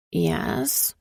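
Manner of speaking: whispered mumble; mumbled. Acted. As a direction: mumble it reluctantly. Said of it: "she mumbles".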